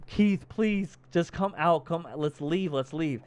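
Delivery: high plea sinking toward normal; mock tearful pleading. Heroine begging companion to come out, lightly acted tearful plea. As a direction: imitate a crying woman begging to leave. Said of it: "she's, like, crying".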